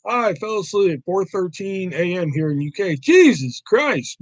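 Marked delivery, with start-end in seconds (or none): 3.0-4.2 slow, stretched Jesus Christ; drawn-out exclamation. Real, not acted. Streamer reacting to viewer who slept, slow mock dismay.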